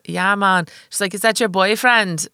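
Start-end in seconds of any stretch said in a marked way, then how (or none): 0.1-0.7 lightly testing a Jamaican accent; Jamaican accent try. Shown as a demonstration. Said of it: "I'm trying to think of". 1.1-2.3 put-on slower, higher Jamaican accent drifting into Irish; botched Jamaican accent. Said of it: "I can't get out of an Irish".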